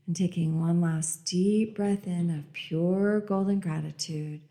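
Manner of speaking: calm meditative tone; guided meditation. Acted. Leads a breathing meditation.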